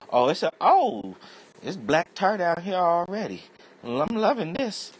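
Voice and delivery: a smug little bug delighted by the tar; gleeful virus voice. Acted. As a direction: virus enjoys the smoker's lungs, hinted high creature voice. Virus voiced settling in lungs.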